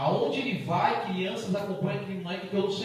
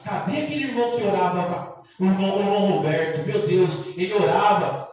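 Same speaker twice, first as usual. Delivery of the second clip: louder calling for the brother; 7 dB louder than usual. Acted. Preacher voicing people seeking the brother, loud call. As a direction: call out for him across the church.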